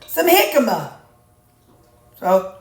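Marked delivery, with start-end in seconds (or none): 0.0-0.9 retold eager idea. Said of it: "And I said".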